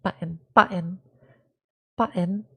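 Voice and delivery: British glottal "button", repeated; trying out BUTTON with a swallowed British T; lightly British pronunciation; British accent. Shown as a demonstration. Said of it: "without a British accent".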